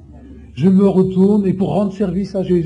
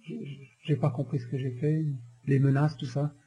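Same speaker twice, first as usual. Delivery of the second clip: meek apology; 4 semitones lower, 5 dB quieter than usual. Retold or imitated. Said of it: "il dit, madame".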